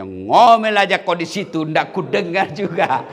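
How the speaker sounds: mock the wife down in the well; husband gloating over the well, mildly; husband taunting. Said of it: "Dia bilang suaminya".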